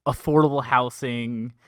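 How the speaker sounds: slow, sales-pitch build with rising hooks; infomercial pitch. Acted. The speaker pitches his advice like an infomercial. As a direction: sell it like a late-night ad. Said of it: "Is this an infomercial?".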